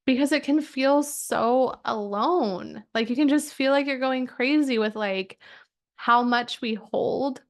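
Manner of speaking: close to tears. Real, not acted. Coach tears up telling members about feeling alone. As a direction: let the tears press up as you say it. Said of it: "because I'm gonna cry".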